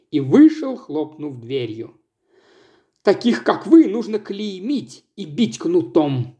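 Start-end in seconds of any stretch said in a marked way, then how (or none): 3.0-6.4 a mild mock yell, higher at the start. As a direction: rail at her. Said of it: "продолжала вопить Ирис".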